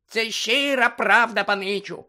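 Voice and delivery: high, slow squeaky assurance; Dobby the house-elf assuring Harry; earnest house-elf. Acted. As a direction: convince him, earnest little elf. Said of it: "переконано сказав Добі".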